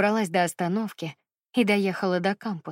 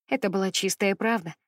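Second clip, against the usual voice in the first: usual speaking voice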